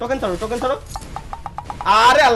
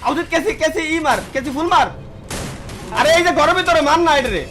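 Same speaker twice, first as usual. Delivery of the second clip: urgent callout; 5 semitones higher than usual. Real, not acted. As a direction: shout the enemy position fast. Calling enemy location urgently.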